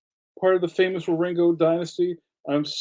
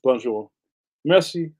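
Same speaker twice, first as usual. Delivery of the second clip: broken French; 3 semitones lower, 3 dB louder than usual. Shown as a demonstration. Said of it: "Sorry about my bad French".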